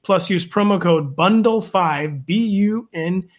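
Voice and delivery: upbeat sponsor ad read; infomercial. Acted. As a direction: sell it like a radio spot. Host reads sponsor ad.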